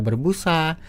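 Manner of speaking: "berbusa" with its last syllable drawn out; akhir kata dipanjangkan. Shown as a demonstration. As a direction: stretch the final "sa" of "berbusa". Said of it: "di akhirnya tuh dipanjangin". (suku kata akhir "berbusa" dipanjangkan)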